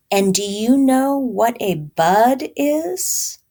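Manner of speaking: slow, coaxing mama voice; gentle mama reread. Shown as a demonstration. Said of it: "I'm gonna reread that".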